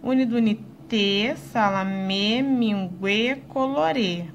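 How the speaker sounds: slow sing-song closed endings; closed vowel stress. Shown as a demonstration. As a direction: lean on the closed ê of salamé, minguê, colorê. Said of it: "Viu como dá diferença?".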